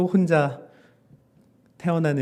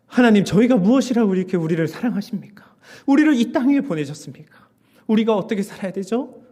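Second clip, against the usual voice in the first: raised, pleading prayer; impassioned prayer; 5 semitones higher, 5 dB louder than usual. Acted. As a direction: cry out questions to God. Preacher acts out a prayer. (하나님께 호소하듯 높여 기도)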